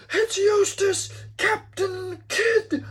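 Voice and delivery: high, loud, drawn-out alarm cry; acted lookout shout. Lookout warning his captain of a pursuer, acted shout. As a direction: yell the dreaded name from the masthead. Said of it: "And he's like".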